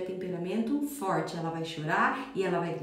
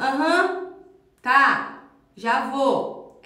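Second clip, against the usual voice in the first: loud, offhand "aham, tá, já vou"; dismissive kid reply; 3 semitones higher, 8 dB louder, much slower than usual. Retold or imitated. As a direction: brush the parent off without listening. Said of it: "ela tem que falar". (criança respondendo no automático, distraída)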